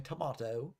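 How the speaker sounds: "tomato" as tuh-MAH-toe, British style; British accent attempt. Shown as a demonstration. Commentator admitting their limit, British-accented "tomato" with AH. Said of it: "a British accent outside of that phrase".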